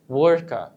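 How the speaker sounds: وركر with the R only lightly touched; soft R. Shown as a demonstration. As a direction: say وركر with a soft, barely-there R. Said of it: "إن أنا نطقت ال R خفيفة". (نطق وركر بحرف R خفيف جدًا)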